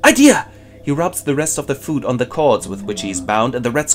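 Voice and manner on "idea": very high, loud cartoon squeal, then a bright idea; hammed-up yelp. Prisoner scratched by the pendulum, very high loud cartoon yelp. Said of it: "he goes".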